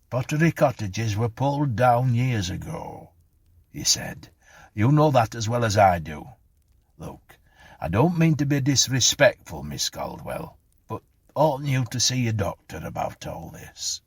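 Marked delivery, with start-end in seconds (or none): 0.1-3.1 higher, firm policeman's rebuttal; exasperated correction. A narrator's reading. Policeman contradicts Clara. 4.7-14.0 emphatic, louder bobby, easing to respect; concerned policeman. A narrator's reading. Voices the policeman.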